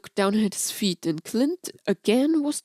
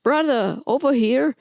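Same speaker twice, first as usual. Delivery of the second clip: loud call across a corridor; big brother hollering down the hall; 5 semitones higher, 5 dB louder than usual. Acted. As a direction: shout to get his brother's attention. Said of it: "called out to him".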